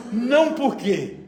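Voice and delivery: slow, offended "Não, por quê?" with a half laugh; indignant daughter's tone. Retold or imitated. Daughter protesting to her mother, mild mock indignation. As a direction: mimic the daughter's put-out comeback. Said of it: "é a entonação".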